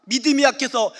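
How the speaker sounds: ordinary delivery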